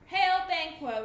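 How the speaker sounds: loud, eerie crone greeting; old witch voice. A narrator's reading. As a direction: hail him like an old witch. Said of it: "replied the oldest witch".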